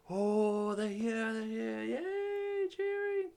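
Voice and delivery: high, cheering crowd voice; excited crowd. Acted. Everyone seeing the airship arrive, excited cheering. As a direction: squeal up high like a welcoming crowd. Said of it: "And everyone's like".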